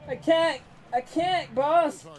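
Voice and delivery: high, strained begging for help; playing the struggling underling; mock-desperate pleading. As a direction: call to the boss, hammed-up. Acts desperate plea to boss Vader.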